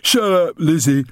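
high, loud bark. Acted. Big brother silencing his little sister, barked. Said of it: "barked Milo".

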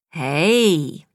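a smile in the voice on hello; smiling voice. A narrator's reading. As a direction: answer the phone smiling, pleased to hear her. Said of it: "a smile in his voice".

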